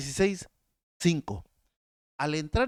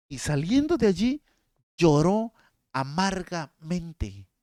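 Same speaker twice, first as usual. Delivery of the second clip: mournful, drawn out; 4 dB louder, slower than usual. Shown as a demonstration. Preacher reading Peter's bitter weeping to congregation, mournfully. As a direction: stretch lloró amargamente out as if weeping. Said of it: "Escucha esta".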